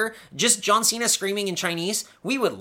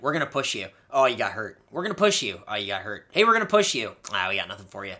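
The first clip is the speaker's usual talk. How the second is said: mock booker voice; 4 semitones lower, faster than usual. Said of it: "a guy who's like".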